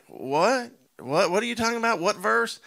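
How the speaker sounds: high, puzzled what-are-you-on-about; mock bewildered pastor; baffled pastor. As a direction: imitate a pastor caught off guard. Pastor confused by caller's question.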